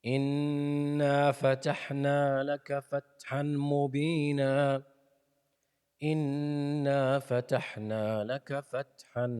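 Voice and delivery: تلاوة مرتلة; Quran recitation. Shown as a demonstration. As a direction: chant each verse evenly.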